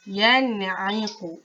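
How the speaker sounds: yan'iqu, nun clear before ain, no hum; slow, clean reading; careful recitation; correct reading. Shown as a demonstration. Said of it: "bacaan dia".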